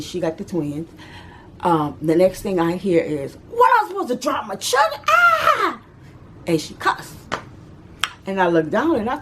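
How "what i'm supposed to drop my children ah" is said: high, loud shocked cry of pain. Retold or imitated. Mama at the parade, hit in the eye, crying out in shock and pain. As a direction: cry out as if just struck.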